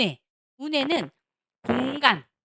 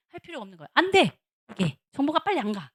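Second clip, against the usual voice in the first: usual speaking voice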